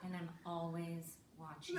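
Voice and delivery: low, soft creepy warning; mock menace. Supposed elf warning a child, softly menacing.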